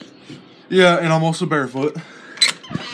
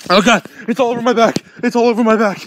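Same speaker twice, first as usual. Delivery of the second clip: panicked; 4 semitones higher, 4 dB louder, faster than usual. Real, not acted. Snow stuck on his back.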